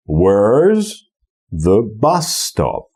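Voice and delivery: "Where's" held alone, pause, then "bus" stressed; alternating stress, broken up. Shown as a demonstration. Teacher breaking down the pattern, stress and pause. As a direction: split after "Where's", slow stress on "bus". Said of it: "W ten sposób".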